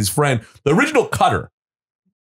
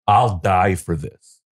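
low and slow, a mock threat; low, slow menace; 5 semitones lower, much slower than usual. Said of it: "I went".

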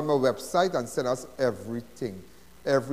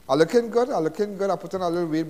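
boastful; 4 semitones higher, 4 dB louder than usual. Real, not acted. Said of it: "As you can see".

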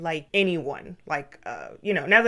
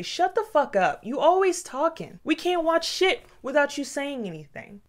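higher, imitated angry scolding; dad scolding; 8 semitones higher than usual. Dad yelling at child during movie, imitated angry scolding. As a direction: chew the kid out in front of everyone, mock rage. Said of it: "He would say my name and say".

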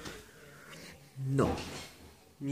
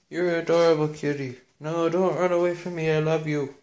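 higher, louder coo at the pet; 5 semitones higher, 4 dB louder than usual. Real, not acted. Owner cooing at the kitten running away, higher and louder.

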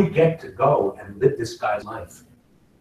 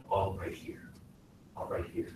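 very soft and close; hushed, lower screen-acting voice; camera-sized delivery; 5 semitones lower, 17 dB quieter than usual. Shown as a demonstration. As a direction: keep it tiny, right at the microphone. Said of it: "Acting from camera is going like this".

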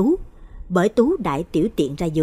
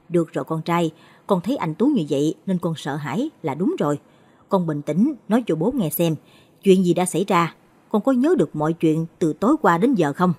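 reassuring father. Acted. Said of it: "trấn an con trai".

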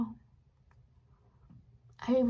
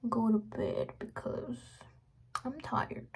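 whispering; slower than usual. Real, not acted. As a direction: whisper it slowly. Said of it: "I'm talking like this".

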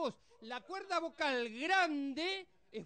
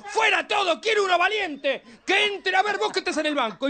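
loud angry coach roaring at the bench; coach shouting; 5 semitones higher, 14 dB louder than usual. Retold or imitated. A coach roaring at his players, furious. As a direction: bellow at the players, fed up.

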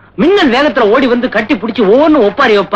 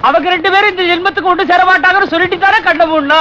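high, sing-song lament; put-on funeral wail; mock crying; 5 semitones higher than usual. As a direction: sob out blame for the staged death. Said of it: "ஒவ்வொருத்தரும் அழ ஆரம்பிச்சிருக்கிறாங்க".

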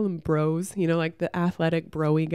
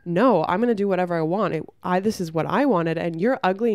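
mock aggressive bro; 3 dB louder than usual. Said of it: "turned at me super aggressively".

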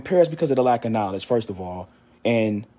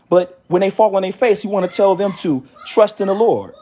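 fervent street preacher building up; preaching with force; 2 semitones higher than usual. Acted. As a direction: press the point home to the faithful. Sermon rising to full force.

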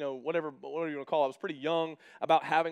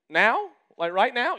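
louder, higher panicked questions; alarmed new dad; 6 semitones higher, 7 dB louder, slower than usual. Retold or imitated. New dad startled as nurses hand him the baby. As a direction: act startled at being handed the baby.

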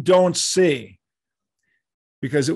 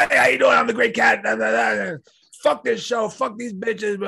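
imitating Kat cursing; 8 semitones higher than usual. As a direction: ham up the obnoxious metal diva yelling. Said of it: "Like she's cursing".

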